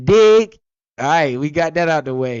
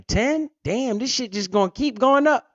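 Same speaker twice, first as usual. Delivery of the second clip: mock surprise; 9 semitones higher than usual. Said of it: "I was like".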